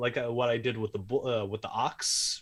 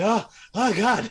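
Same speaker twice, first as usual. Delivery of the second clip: put-on very high, very loud yelp; 10 semitones higher, 9 dB louder than usual. Imitating a person who just ate very spicy food. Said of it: "looks like Tarek just ate some really spicy food. He's like".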